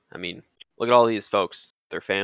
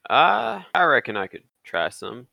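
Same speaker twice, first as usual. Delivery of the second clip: put-on lightly drawled Old West accept; cowboy accent; 4 semitones higher than usual. Jonah accepting liquor from Jacob in a light cowboy accent. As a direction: reckon it like a frontier cowpoke, barely put on. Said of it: "stop doing the accent now".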